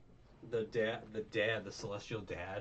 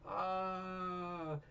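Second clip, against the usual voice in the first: much higher, slow and carefree; casual Luffy; 10 semitones higher, much slower than usual. Retold or imitated. Luffy arriving at the auction, high and slow. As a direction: drawl it like a carefree hero. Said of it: "he's like".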